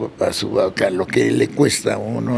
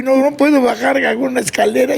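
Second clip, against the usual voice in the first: retold crying; 10 semitones higher than usual. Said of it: "Estaba llorando y llorando".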